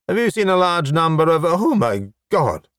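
brisk high question, then slowing in dismay; shocked break-off. Acted. Stranger asking, then seeing the half-dressed man, appalled. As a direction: start urgent and high, drag out the shock.

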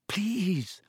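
a touch of hushed panic; frantic whisper. A narrator's reading. Harry begs the wailing elf, frantic. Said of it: "Harry whispered frantically".

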